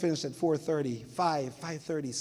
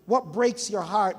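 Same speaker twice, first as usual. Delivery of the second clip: slow emphatic question; 3 semitones higher, 4 dB louder, slower than usual. Shown as a demonstration. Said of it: "When you see something".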